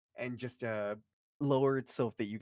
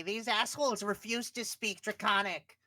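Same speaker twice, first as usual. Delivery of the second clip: grudging character voice; 7 semitones higher than usual. Acted. GM voicing reluctant character.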